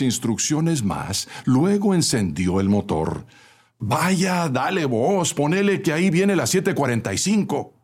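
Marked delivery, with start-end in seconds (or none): 3.8-7.7 high-pitched call to the driver; shouting. A narrator's reading. Fare collector hurrying the driver along, shouting. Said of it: "gritó el cobrador".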